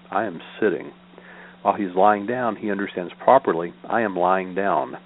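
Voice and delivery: measured, evenly phrased sutra recital; formal reading aloud of Buddhist scripture. Acted. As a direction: read the teaching out in steady, repeating cadences.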